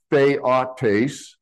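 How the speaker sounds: theotes begun with "thay", as in eight; long-A first syllable. Shown as a demonstration. Preacher teaching the bottom Greek word, long-A theotes. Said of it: "the E I is a diphthong".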